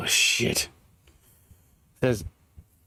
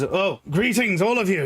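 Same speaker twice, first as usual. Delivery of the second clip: NPC greeting; 6 semitones higher than usual. Acted. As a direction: draw out the greeting warmly.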